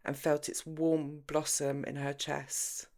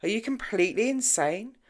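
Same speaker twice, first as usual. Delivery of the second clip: angry disbelief; 6 semitones higher, 7 dB louder than usual. A narrator's reading. James thunders on.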